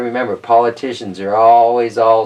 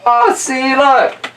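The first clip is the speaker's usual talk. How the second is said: high, delighted look; excited; 8 semitones higher than usual. Real, not acted. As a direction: point it out with glee. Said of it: "excited reading to kids".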